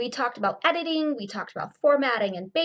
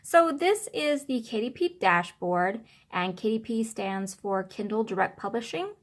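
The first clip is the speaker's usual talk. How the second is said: muffled voice from behind the phone. Real, not acted. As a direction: talk muffled and a bit distant. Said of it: "apologize if my voice is a little bit muffled".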